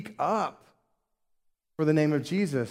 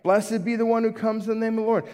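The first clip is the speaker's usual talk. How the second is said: higher, quick crowd acclamation; mild mock scream; 5 semitones higher, faster than usual. Preacher voices crowd as Jesus walks in, raised quick cry. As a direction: call it out fast and raised, short of screaming. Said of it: "This is what they're screaming".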